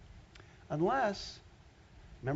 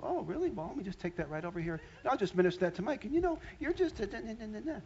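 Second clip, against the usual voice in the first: lightly voiced sneering demon; a hint of a taunting devil whispering; mocking demon; 5 semitones higher than usual. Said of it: "that demon will go".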